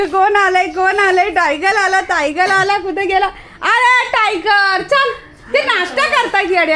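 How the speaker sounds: high, loud singsong to the dog; high-pitched excited greeting; excited pet talk. Real, not acted. Excited pet talk as Tiger arrives.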